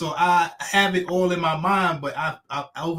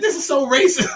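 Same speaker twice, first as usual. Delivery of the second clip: laughing; 10 semitones higher, 4 dB louder than usual. Retold or imitated. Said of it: "I said".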